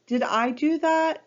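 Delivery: high, loud startled question; Pooh, amazed he did it; surprised. Acted. Pooh astonished at his own idea, asking high and loud. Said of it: "so surprised by the idea".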